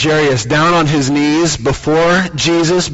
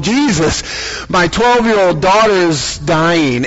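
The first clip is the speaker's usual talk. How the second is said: desperate plea; 2 semitones higher, slower than usual. Acted. Jairus begging Jesus for his dying daughter, urgent plea. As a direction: beg him to hurry.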